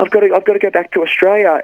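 high-pitched imitation of a film heroine; a singer-actress. Guest mimics the Grease heroine talking of home, high-voiced role. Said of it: "for her to go up there and say".

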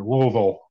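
Louisville mushed to a thick LO-vul; Louisville swallowed as if through peanut butter; mouth full of peanut butter. Shown as a demonstration. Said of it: "You guys say it like your mouth's full of peanut butter".

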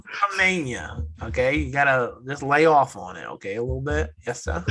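a light put-on Maine lobsterman accent; mock Maine accent, teasing the Boston guy. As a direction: play a down-east Maine local, half joking. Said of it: "See, but that's not bad".

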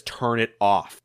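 slow, low, restrained order; controlled anger. Acted. Eggman orders Orbot to stop the video, controlled anger. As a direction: order it through simmering anger. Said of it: "ever increasing in his anger".

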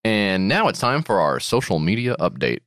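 suave radio announcer read; smooth announcer segue. Pretend. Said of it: "It's just suaveness".

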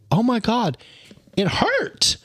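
high squeaky mock cry of pain; mock pained squeal. Retelling the scrub to friends, high mock squeal. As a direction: squeal it like it stings.

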